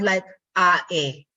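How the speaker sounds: the A sound split into two vowels, "a, e"; "a" gliding on into "e"; A as a diphthong. Shown as a demonstration. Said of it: "pronounce the A sound as a diphthong".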